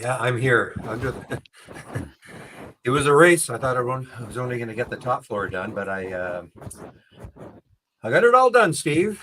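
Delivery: panting after racing upstairs; breathless, catching air between words; out of breath. Real, not acted. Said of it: "you sound out of breath".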